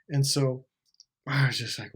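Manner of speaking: ordinary delivery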